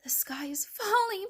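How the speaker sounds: high, lightly breathless chick; panted. A narrator's reading. Chick reporting to the hen, panting. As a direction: pant out the alarm. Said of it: "panted Chicken Little".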